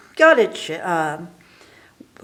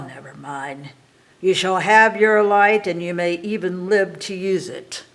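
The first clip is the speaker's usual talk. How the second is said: lightly voiced sly old witch, louder in spots; a hint of a mocking witch; 4 dB louder than usual. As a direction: Baba Yaga answers the girl, slyly. Witch replies slyly.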